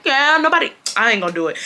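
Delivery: high-pitched attempt at a Hispanic accent; Brian. Bully denying it to the teacher, imitated Hispanic accent. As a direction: start a mock Hispanic accent and break off. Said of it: "he would say it in his Hispanic accent".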